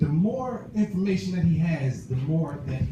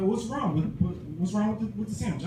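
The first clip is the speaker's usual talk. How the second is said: high, stumbling worried questions; acting out a baffled parent searching for the problem; pitched-up, halting concern; retold puzzlement; 4 semitones higher than usual. Voicing himself asking about upset daughter.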